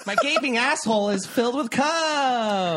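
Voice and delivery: high laughing voice. Real, not acted. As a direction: laugh through the line. Crude joke, laughing.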